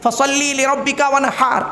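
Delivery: "ওয়ানহার" with a throaty Arabic h; correct Quranic pronunciation. Shown as a demonstration. Preacher repeating the verse for listeners, correct Quranic pronunciation. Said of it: "উচ্চারণটা ঠিক রাখুন".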